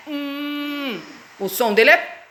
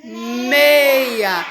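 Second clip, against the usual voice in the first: 1 slow sounding out again; 3 semitones lower than usual. Shown as a demonstration. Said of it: "De novo, Luquinha".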